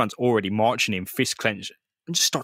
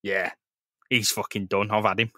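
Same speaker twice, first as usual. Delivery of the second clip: nonchalant; 3 semitones lower than usual. Retold or imitated. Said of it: "really nonchalant".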